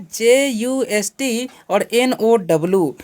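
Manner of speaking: spelling out JUST and NOW slowly. Shown as a demonstration. Teacher spells the first words for students, slow spelling-out. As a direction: read the letters one at a time, drawn out. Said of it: "इसे कैसे पढ़ते हैं".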